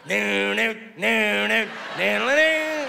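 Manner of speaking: smug sing-song no, rising at the end; a cocky shark teasing the swimmers; wise-ass shark. Acted. Cocky shark taunting the diver, lilting no no no. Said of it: "wise-ass shark off in the corner going".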